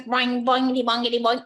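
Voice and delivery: springy imitated hopping sound; playful cartoon boinging; bouncing noises. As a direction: chant the frog's hops in rhythm. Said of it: "And he goes".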